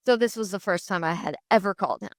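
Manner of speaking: ordinary talk, nothing marked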